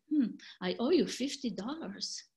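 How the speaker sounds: settled falling statement with a thoughtful hmm; calm acknowledgement. Acted. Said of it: "but I use different melody".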